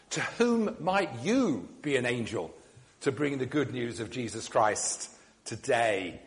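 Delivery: normal talking voice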